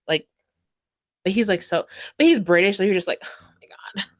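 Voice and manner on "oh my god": breathy mock swoon, barely voiced; swooning whisper. Fan whispering over a British boy, swooning.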